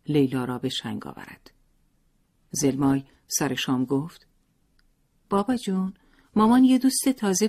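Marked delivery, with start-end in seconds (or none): 5.3-7.5 a lightly voiced child, a little higher; sing-song telling on his mother; tattling little boy. A narrator's reading. Boy tattling to father at dinner.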